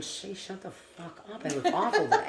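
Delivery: mock the inner voice snapping at yourself; harsh inner critic. Her own inner voice scolding her, harsh and mocking. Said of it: "I'd be like".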